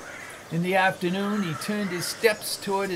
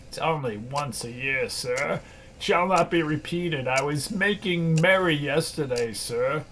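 timid clerk pleading; 4 semitones lower than usual. Acted. Clerk pleading with stern boss.

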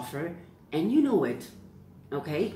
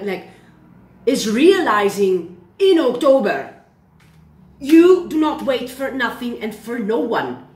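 worked-up, a touch louder; rally them with real excitement; excited; 3 semitones higher, 4 dB louder than usual. Real, not acted. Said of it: "I'm doing a little bit cuckoo now".

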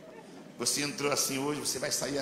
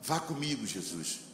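quiet prayer; 4 semitones lower, 5 dB quieter than usual. Retold or imitated. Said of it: "e eu disse assim".

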